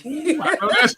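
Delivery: high delighted laughing ooh. Real, not acted. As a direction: squeal it out with a laugh. Host reacts to Brooklyn energy.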